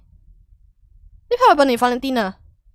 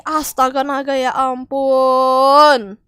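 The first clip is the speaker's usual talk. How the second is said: drawn-out exasperated sigh; 5 dB louder, much slower than usual. Real, not acted. Streamer exasperated at teammates.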